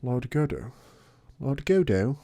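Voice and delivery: put-on odd puzzled girl voice; mock-confused questioning; goofy voice. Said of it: "What was that voice?".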